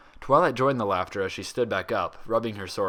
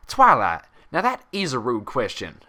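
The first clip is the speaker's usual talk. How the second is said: disapproving; 3 semitones higher, 8 dB louder than usual. Acted. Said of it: "disapproving stare".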